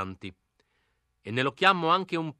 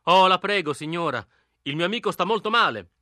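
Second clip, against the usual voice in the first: louder, high, urgent gentleman pleading; gentleman in distress; 4 semitones higher, 5 dB louder than usual. Acted. To the old lady behind the door, urgent pleading. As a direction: beg as a suffering gentleman in a hurry. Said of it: "ciangotta da signore tipo gran fretta e sofferenza".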